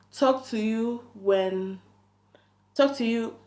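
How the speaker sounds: mock hurried whisper; hushed. Quoting him hushing off.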